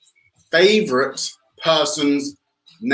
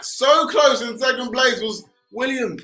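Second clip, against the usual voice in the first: excited; 9 semitones higher than usual. Real, not acted. Announcing second place.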